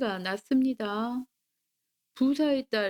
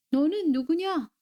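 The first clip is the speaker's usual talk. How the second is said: mildly startled, higher-pitched challenge; 6 semitones higher than usual. A narrator's reading. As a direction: narrate a young lady taken aback, voice lifted. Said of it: "깜짝 놀라 뒤로 물러섰지요". (살짝 놀란 듯 높은 목소리로)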